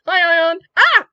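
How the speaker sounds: high excited shout of a name; excited greeting. Acted. Carl bursts in greeting Ion, high excited shout. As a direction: burst in happily with a squeal. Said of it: "Carl shows up, just like".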